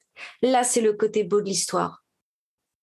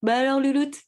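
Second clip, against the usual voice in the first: rising into a high, bright cheer; coaxing self-pep talk; 7 semitones higher than usual. Retold or imitated. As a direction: coax yourself like a doting granny. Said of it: "je me parle comme ça des fois".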